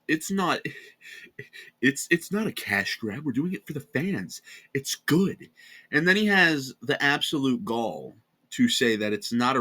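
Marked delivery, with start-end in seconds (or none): 0.1-5.5 mocking a YouTuber. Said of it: "open his big lips and say".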